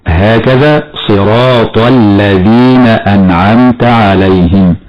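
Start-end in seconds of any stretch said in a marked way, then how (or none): 1.1-4.8 slow recitation, doubled ل in "الذين"; assimilated lam. Shown as a demonstration. Teacher demonstrates assimilation, doubled ل in "الذين". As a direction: merge the article into a doubled ل in "الذين". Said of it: "فاللام فيها حكمها الإدغام الشمسي".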